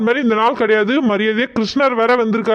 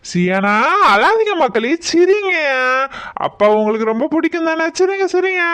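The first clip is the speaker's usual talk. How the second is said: sing-song fatherly coaxing; coaxing comfort; 2 semitones higher than usual. Acted. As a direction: soothe a crying child. Father coaxes crying child to smile.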